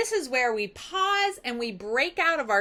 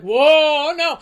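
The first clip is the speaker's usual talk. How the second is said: loud startled cry of dismay; mock alarmed whoa; 3 semitones higher, 10 dB louder than usual. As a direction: yelp as the sea pulls you away. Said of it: "he's like".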